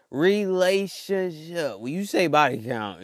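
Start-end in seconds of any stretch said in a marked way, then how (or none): 0.1-1.8 "Relationship" stretched out slowly, pitched high; emphatic repetition. Real, not acted. Podcaster clarifies what body count means, stretching "Relationship" emphatically. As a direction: draw out every syllable of "Relationship", high and emphatic.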